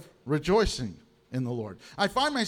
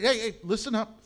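urgent call for attention; 4 semitones higher than usual. Retold or imitated. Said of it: "he's trying to get their attention".

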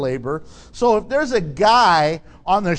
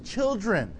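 condescending; 5 dB quieter than usual. Acted. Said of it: "Kind of condescending".

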